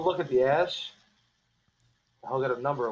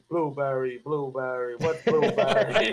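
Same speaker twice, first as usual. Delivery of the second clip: mocking imitation; 5 dB louder, slower than usual. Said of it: "He's like".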